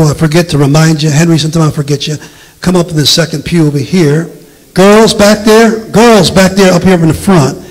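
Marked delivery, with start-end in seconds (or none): 4.7-7.6 calling out. Real, not acted. Seating youth, calling to the back.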